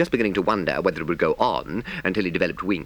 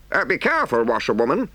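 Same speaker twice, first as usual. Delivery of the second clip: higher gentleman's cautioning call; warning call; 6 semitones higher, 4 dB louder, faster than usual. A narrator's reading. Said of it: "gentleman call out warningly".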